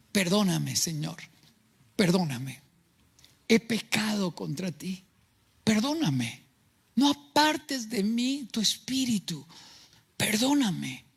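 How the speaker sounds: acted repentance. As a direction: plead as a penitent, pausing between pleas. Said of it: "Según de Samuel doce trece dice". (súplica arrepentida actuada, en tono bajo)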